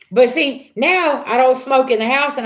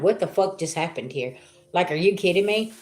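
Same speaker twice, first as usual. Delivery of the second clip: mock stunned disbelief; 4 semitones lower, 6 dB quieter than usual. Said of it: "somebody's saying".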